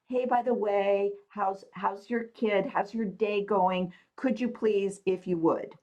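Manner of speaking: butter up the nurse, slowly and brightly; extra sweet asking. Retold or imitated. Acting overly nice to nurses.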